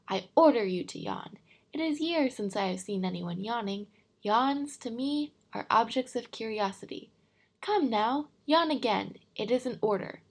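loud, lofty royal orders; commanding king. Acted. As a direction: boom out every order like a proud king.

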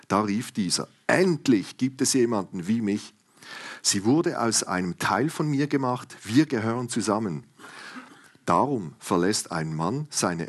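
reading the Bible passage aloud; scripture reading. Acted. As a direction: read it like a lesson from the pulpit.

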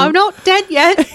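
high, drawn-out comic whine; protesting not-dead man. Acted. Man about to be buried protesting, comic whine. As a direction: pipe up slowly in a high silly voice.

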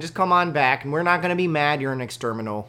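pleading mock Yooper; Yooper accent. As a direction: coax a friend back in a Yooper accent. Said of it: "fits really well into the Yooper thing".

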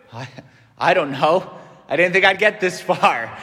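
low, hesitant imagined answer; mock uncertainty. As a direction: fumble for an answer, half joking. Imagined unsure answer to Jesus.

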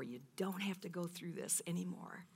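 whispered, tender repeat of God's words; whispered reassurance. Acted. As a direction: hush it like a comfort.

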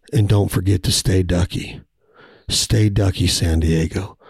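low, smooth late-night radio host; midnight DJ voice. Pretend. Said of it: "This is my midnight D J voice".

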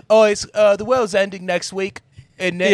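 high, casual mock announcement; man without voice machine. Podcaster imagining scientist without his A I voice, high mock chatter. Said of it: "if it was just him coming".

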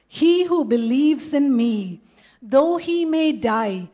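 loud, slow proclamation; preacher booming scripture; forceful preaching. Acted. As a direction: declare it slowly to the whole crowd. Preaching Jesus' words with force.

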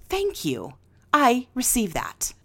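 calm sincere thanks. Shown as a demonstration. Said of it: "I want you to go".

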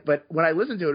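normal talking voice

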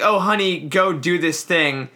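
grandma voice. Retold or imitated. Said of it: "literally saying, like".

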